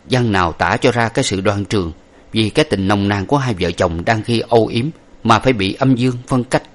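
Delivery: plain reading voice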